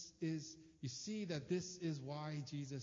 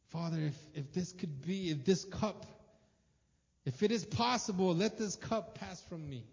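anguished prayer; 2 semitones higher, 5 dB louder than usual. Retold or imitated. Jesus praying in Gethsemane, voiced.

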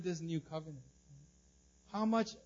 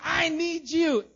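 slow pleading man; 10 semitones higher, 8 dB louder, slower than usual. Acted. Paralytic man pleads to Jesus.

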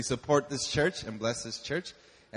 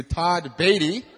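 loud, stretched-out announcer build-up; big booming intro for the guest preacher; hype-man introduction; 6 semitones higher, 7 dB louder than usual. Real, not acted.

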